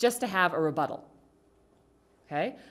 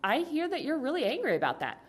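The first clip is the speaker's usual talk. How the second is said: calm validating; 7 semitones higher than usual. Acted. Models calm parent answering angry daughter.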